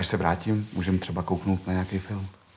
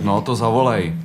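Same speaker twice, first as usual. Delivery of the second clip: loud defiant retort, higher; defiant shout; 5 semitones higher, 10 dB louder than usual. Acted. He dares the boy to call the police, loud defiant shout. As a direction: fling the dare back at him.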